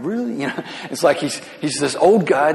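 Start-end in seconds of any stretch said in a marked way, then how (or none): 0.0-0.4 exasperated really. Retold or imitated. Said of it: "Samuel's probably going".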